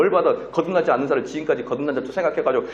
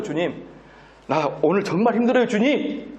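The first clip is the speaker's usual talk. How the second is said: mock sulky prayer; 5 semitones higher than usual. Mocking young man's sulky prayer.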